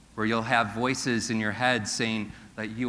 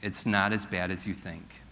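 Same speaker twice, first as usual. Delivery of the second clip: reassuring; 4 semitones lower, 5 dB quieter than usual. Shown as a demonstration. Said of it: "Tell this to your neighbor".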